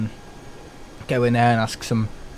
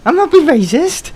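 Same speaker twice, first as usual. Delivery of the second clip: laughing high denial; 13 semitones higher, 6 dB louder than usual. Real, not acted.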